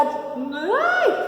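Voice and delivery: long, high-pitched cry of fear; drawn-out acted yelp; frightened squeal. Shown as a demonstration. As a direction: demonstrate a scared squeal. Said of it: "Geralmente a voz fica até mais aguda".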